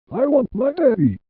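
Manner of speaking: put-on high-pitched plea of a child; mild narrated cry. A narrator's reading. Little boy begging for his daddy, crying out mildly. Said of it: "the boy cried".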